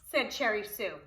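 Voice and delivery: lively, sing-song storybook reading; reading to children. Acted. Preschool teacher reading Poppleton to children, storybook voice. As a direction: read it aloud to the preschool class. Reads picture book aloud.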